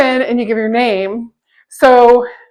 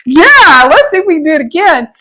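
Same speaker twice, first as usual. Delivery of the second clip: louder, higher eager "yeah", then rushing on; retold excitement; 3 semitones higher, 4 dB louder than usual. Friends fresh off the roller coaster urging another go, retold excitement. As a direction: imitate a buzzing post-ride cheer. Retelling friends' adrenaline-pumped reaction.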